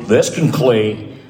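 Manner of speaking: put-on slow old-timey radio announcer. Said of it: "big, dumb announcers".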